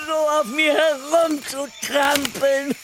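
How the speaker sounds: bitter rant. Acted. Cornelius repeats his grievance.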